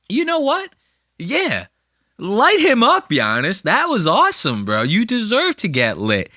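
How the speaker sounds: high, gushing fake praise; mock gushing Joe. Comic mocking Joe as if he loved the line, high gushing voice. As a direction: fawn over it in a high voice. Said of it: "As if Joe's gonna turn and look to him and go".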